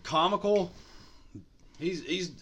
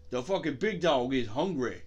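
same line in a lower-key put-on voice; mock big-dog growler, not shouted; 3 semitones lower than usual. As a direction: drop out of the shout into character.

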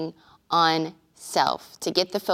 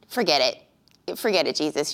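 dismissive giving up; 4 semitones lower than usual. Acted. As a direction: voice drops, write him off. Imagined walking away from Jesus, offended.

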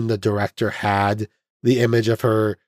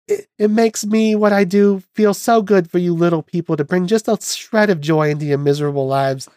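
imitating Lena, pitch pushed much higher; Lena's voice; 8 semitones higher than usual. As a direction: play the starlet whose speaking voice shocks everyone, way up high. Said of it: "weirded out by her voice".

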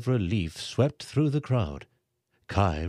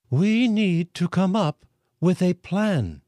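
calmly; 9 semitones higher, 5 dB louder than usual. A narrator's reading. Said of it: "a woman said calmly".

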